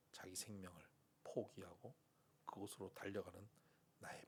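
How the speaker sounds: soft, whispered divine speech; quiet God voice. Acted. God speaking to the drunk student, hushed whisper. God's voice in his heart.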